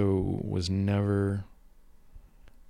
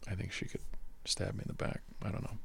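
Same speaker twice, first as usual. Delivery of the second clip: whispering; 8 dB quieter, faster than usual. Real, not acted. Confides a fear about his wife.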